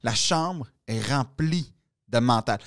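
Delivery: low, slow pronouncement; slow acted speech with spaced-out words; mock-solemn quote. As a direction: draw it out like a profound locker-room truth. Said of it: "il dit".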